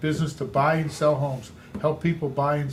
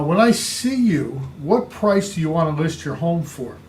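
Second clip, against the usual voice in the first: modelled question; 4 dB louder than usual. Shown as a demonstration. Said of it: "question modelled".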